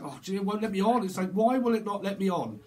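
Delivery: acted frustrated protest. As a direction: complain as if locked out. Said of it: "someone's getting, like, very frustrated".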